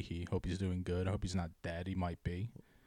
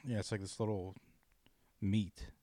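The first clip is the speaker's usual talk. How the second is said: normal talking voice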